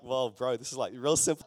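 a hint of a doubtful bro; unimpressed listener. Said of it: "Everyone stared at me like".

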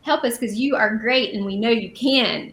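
firm, confident appeal near speaking pitch; proclamation. Acted. Teacher voicing Israel's corporate cry to the Lord, proclaiming. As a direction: declare it as an assured group cry. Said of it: "It's like a proclamation even".

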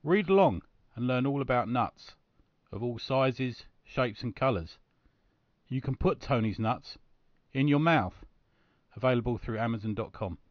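slow, measured sponsor read; advert read. Pretend. Host reading a picture book advert to listeners, deliberate announcer delivery. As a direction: sell it phrase by phrase, with deliberate pauses.

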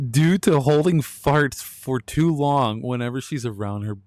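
fighting the giggles to finish the line; laughing while reading. Real, not acted.

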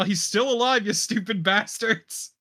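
half-shouted in-character challenge; mock yell. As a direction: call out indignantly in character, pitch jumping up. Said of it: "I'm gonna yell".

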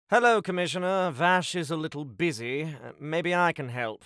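forced cheery greeting. Acted. Butler bluffs on comm.

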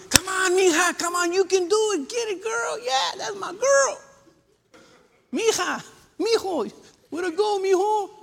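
high-pitched yelling sports parent; over-excited sideline cheering. Acted. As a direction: holler wildly for your kid from the stands. Mimics parents cheering at games.

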